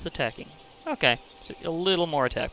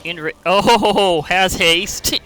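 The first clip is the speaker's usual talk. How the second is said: excited; 5 semitones higher, 10 dB louder, much slower than usual. Real, not acted. Surprised by a lucky draw.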